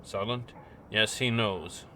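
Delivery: businesslike. Acted. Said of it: "her tone changes and becomes more businesslike".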